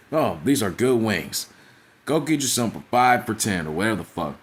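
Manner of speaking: mocking a reluctant Wingstop ad, slowed down; forced ad read like Dominique. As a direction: read it like you're paid to say it. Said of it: "like he was forced to do it".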